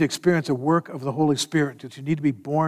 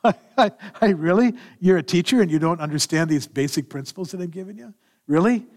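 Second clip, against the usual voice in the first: chuckling; 3 semitones higher than usual. Retold or imitated. Jesus gently teasing Nicodemus, amused with a chuckle. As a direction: tease him with a chuckle. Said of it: "Say it with a smile on and a little bit of a chuckle".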